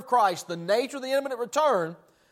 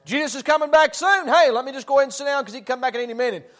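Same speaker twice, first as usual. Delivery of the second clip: eager excuse-maker; 3 semitones higher, 4 dB louder, faster than usual. Acted. Idle believer excusing himself from work, mock-eager and hurried. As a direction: blurt out a convenient excuse.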